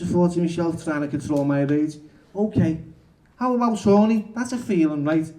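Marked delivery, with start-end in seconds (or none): 2.3-5.3 cheeky. Acted. Cheeky provocation of counsellor.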